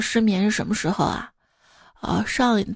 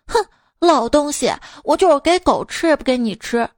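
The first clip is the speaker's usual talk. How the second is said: mock-angry mother, pitched higher; acted indignant huff, raised pitch; spiteful huff; 5 semitones higher, 3 dB louder than usual. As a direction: imitate a wife spitefully refusing her husband. Acts mother spiting father in quarrel.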